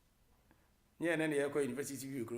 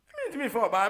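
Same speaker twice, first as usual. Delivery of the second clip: loud laugh through the words; 8 semitones higher, 9 dB louder than usual. Real, not acted. Host laughing again to listeners at the same line. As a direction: laugh as you repeat it.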